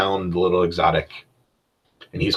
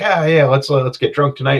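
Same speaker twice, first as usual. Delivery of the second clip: flamboyant rogue; 5 semitones higher, 3 dB louder than usual. Retold or imitated. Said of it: "and he's like".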